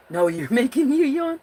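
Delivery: giggling at a viewer who keeps her yawning; laughing. Real, not acted. Laughing at a chat viewer making her yawn.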